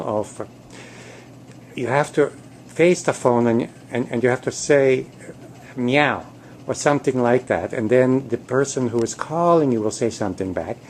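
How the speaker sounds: lightly pleading instructor voice; cat trainer coaching. Acted. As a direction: coach a reluctant pupil, halting and restarting. Cat coaches kitties in training video.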